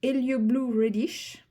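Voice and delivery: slow, careful English with a French accent; English colour name in a French accent, drawn out. Real, not acted. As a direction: sound out the English slowly, French accent intact. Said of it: "mon magnifique accent".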